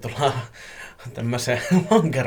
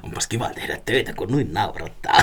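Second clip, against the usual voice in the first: laughing speech; 4 semitones lower than usual. Real, not acted. Reading a listener's note about laughing, real laughing speech. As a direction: read through your laughter.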